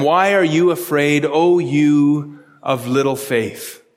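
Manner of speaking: a calm teacher gently asking his frightened friends; gentle rebuke. Retold or imitated. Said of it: "He said to them".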